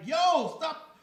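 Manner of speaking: loud, high "yo, stop"; mock scolding yell. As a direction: snap at the kid to stop. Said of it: "like, like".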